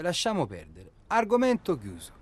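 firm shut-down. Acted. Ending the fight with his partner, loud and final. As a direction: slam the topic shut.

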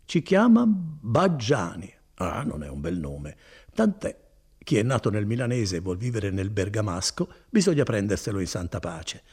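lightly voiced kindly cousin, proud of his work; Bortolo. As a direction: warm and boastful, an easy hearty tone. Bortolo warns Renzo. (Bortolo rassicura Renzo, voce bonaria appena accennata)

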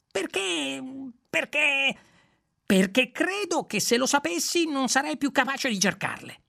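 stumble, then blurt it out; hesitant Zaphod. Acted.

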